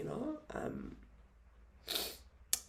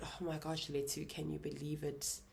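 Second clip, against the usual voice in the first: whispered, breathless disbelief; hushed whisper; 5 dB quieter than usual. Retold or imitated. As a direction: whisper it to him close in bed. Telling husband shocking news in bed.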